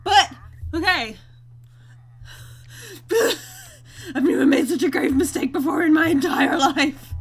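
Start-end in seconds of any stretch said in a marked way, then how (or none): 3.1-7.1 laughing. Real, not acted. Laughing at his mistake.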